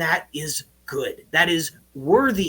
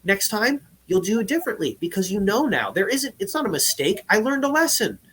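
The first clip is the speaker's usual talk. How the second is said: gentle self-talk; 4 semitones higher than usual. Shown as a demonstration. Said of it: "changing that tone of voice".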